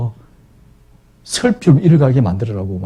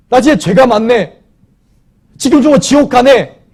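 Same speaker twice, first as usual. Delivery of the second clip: dawning remorse; 11 semitones higher, 5 dB louder than usual. Acted. Repentant thief's realization voiced.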